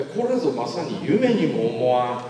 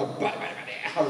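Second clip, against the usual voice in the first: rapid-fire ripping sound effect; imitated cracking noise; 5 dB quieter, much faster than usual. Speaker tearing off his imagined negative filter, imitated cracking noise. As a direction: rattle off a quick tearing noise. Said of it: "自分で効果音を".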